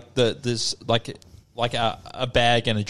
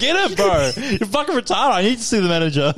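combative demand; 5 semitones higher than usual. Retold or imitated. Acted demand to see the manager.

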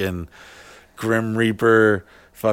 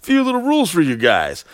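lightly voiced ride-video host, higher pitch; theme-park host; 7 semitones higher than usual. Host welcoming guests in a ride video, mock-cheery greeter. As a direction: imitate an instructional video greeter. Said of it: "like you're going on a Disney line".

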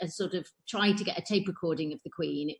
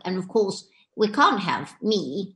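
the Queen; slower than usual. Retold or imitated. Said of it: "Who are you doing".

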